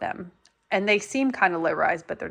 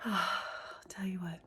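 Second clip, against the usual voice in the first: whispering; 11 dB quieter, faster than usual. Real, not acted. Sigh then aside.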